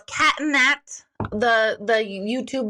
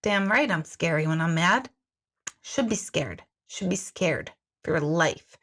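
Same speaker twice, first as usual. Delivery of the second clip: scary mom's inner voice; 4 semitones lower than usual. Retold or imitated. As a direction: let it drop into understated threat. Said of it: "my brain was like".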